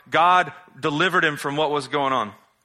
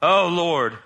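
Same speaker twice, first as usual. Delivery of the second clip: loud, higher put-upon appeal; acted exasperated prayer; 4 semitones higher, 5 dB louder than usual. Preacher as angry Jonah appealing to the Lord, exasperated. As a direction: cry out to God in mock exasperation. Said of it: "that's kinda what he did".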